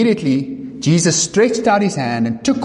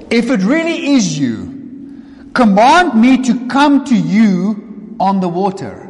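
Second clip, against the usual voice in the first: voiced Peter; 3 semitones higher than usual. Peter voiced asking Jesus.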